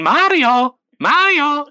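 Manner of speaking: hammed-up Luigi call. Luigi calling out for his brother, high and loud. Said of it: "you just got Luigi going".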